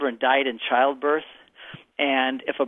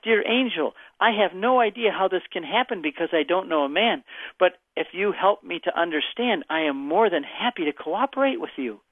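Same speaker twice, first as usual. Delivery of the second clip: higher, gentle and eager to cooperate; sincere and humble; 3 semitones higher than usual. Acted. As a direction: ask with open trust, no doubt in it. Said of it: "the tone of her voice went like this".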